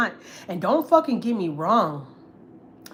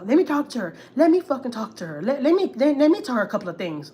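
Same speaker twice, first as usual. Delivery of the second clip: higher, louder, demanding; mock angry relative grabbing the phone; pushy aunt; 4 semitones higher, 3 dB louder than usual. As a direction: imitate the aunt insisting on cussing her out.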